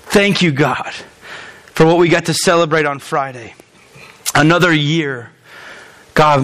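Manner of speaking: low, earnest pastor's prayer; closing prayer. Real, not acted. Pastor praying over his church, low and earnest. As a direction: pray over the congregation, unhurried.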